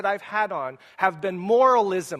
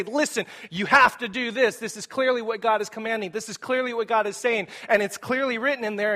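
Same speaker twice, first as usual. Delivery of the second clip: pushy moralizer; 5 semitones higher than usual. Acted. Imitates someone shoving verses at you.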